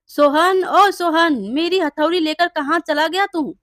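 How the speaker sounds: loud call across the street for Sohan. Acted. Blacksmith calling out for the thief Sohan, loud call. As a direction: shout his name, searching. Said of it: "आवाज लगाता है".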